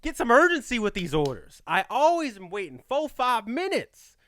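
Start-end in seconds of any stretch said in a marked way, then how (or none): 0.0-1.6 higher, louder mock plea to the staff; demanding urgency from the workers; exasperated plea. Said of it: "I'm like".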